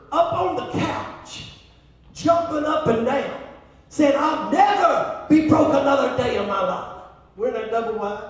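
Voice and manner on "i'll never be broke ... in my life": mild mock yell; retold scream. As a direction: imitate an excited yell, held back. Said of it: "I heard her screaming".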